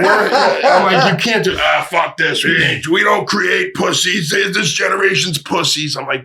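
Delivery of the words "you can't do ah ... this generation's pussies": mock gruff dad voice, pitched up. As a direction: lightly play the old man scoffing. Imitating dad's gruff retort.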